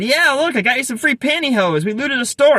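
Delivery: put-on high-pitched, excited take on an inner-city Black accent; imitated inner-city Black accent. Boyfriend showing off free pantyhose, imitated inner-city Black accent. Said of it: "I'm gonna do a terrible job imitating her accent".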